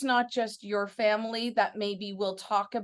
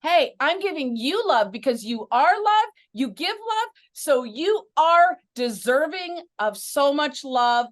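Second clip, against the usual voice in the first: warm affirming; 3 semitones higher, 5 dB louder than usual. Pretend. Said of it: "Tell me if I'm doing a good pimp and positive".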